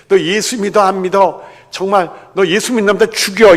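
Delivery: high, loud persecutor's demand; mock threat. Persecutor confronting a believer over their faith, threatening.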